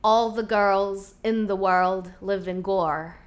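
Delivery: slow Southland accent with strong R's; southern Kiwi burr, almost American R's; Southland New Zealand accent. Shown as a demonstration. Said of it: "there they roll their R's".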